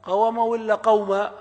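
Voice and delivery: قوم ولا قوم said slowly, first qawm then qawam; contrasting vowels. Shown as a demonstration. Teacher asks the class which form is right, slow and careful. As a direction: set قوم sakin against قوم voweled, slowly. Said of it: "هي مفتوحة ولا ساكنة".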